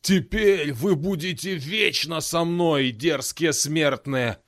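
slow, rumbling demon verdict; thunderous demon voice. Acted. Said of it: "громовым голосом пророкотал Масрок".

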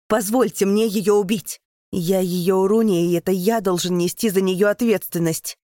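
loud, firm declaration; resolute shout. Acted. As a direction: claim the duty as his own. Keita insists on his duty.

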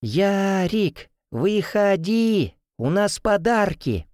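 high, drawn-out calling. A narrator's reading. Girlfriend calls up to the window, drawn-out call. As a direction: call him down from the street. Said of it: "складывает руки рупором и кричит".

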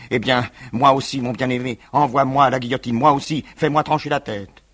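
a loud, high cry choked with blood and tears; strangled cry. Acted. Élodie begging her lover to send her to the guillotine, strangled cry. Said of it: "lui cria d'une voix étranglée de sang et de larmes".

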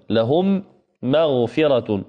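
لهم مغفرة slowed, the doubled mim held with a nasal hum; slow demo recitation. Shown as a demonstration. Teacher models the example for students. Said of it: "مثال آخر".

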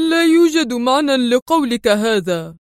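a hint of hungry eagerness; lightly voiced eager prisoner. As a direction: press him, wanting the food. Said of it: "في لهفة".

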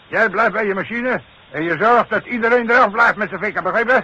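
loud, high shouted orders over machinery. Acted. Foreman shouting orders to a worker at the machine, loud and high. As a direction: bark the instructions over the noise.

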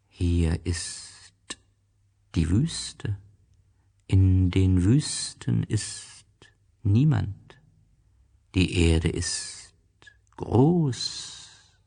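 the snake explaining the desert, slow. Acted. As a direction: draw it out slowly and calmly like the snake. Snake voice in story reading.

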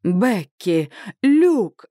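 lightly voiced hearty father; father calling out to his daughter and Luke; mild mock yell. A narrator's reading. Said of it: "орёт папа".

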